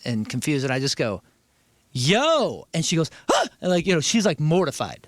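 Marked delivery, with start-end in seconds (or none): 1.9-2.7 retold startled greeting, drawn out; startled yell. Sleepy guest to intruder at the door, startled. Startled when stranger walks in. 3.3-3.5 acted shocked gasp; a sharp, mock-horrified intake of breath; mortified gasp. Woman walking in on sleeping guest, mortified gasp. Intruder shocked at seeing him.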